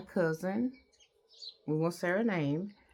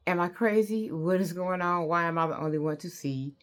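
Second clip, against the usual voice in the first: retold crying. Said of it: "I'm crying 'cause I'm like".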